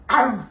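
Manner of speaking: mock dog growl; dog bark demo. Shown as a demonstration. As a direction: growl like a guard dog to scare. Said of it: "Dapat, pag ano ka". (kunwaring tahol ng aso)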